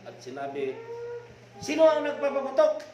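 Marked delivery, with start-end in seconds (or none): 1.6-2.8 furious high shout; enraged drunk shouting; angry yell. Acted. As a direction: roar at whoever fired. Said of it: "Lalong nagalit".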